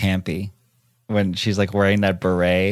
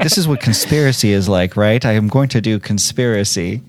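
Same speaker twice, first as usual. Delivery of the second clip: excited; 4 dB louder than usual. Retold or imitated. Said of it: "He's like".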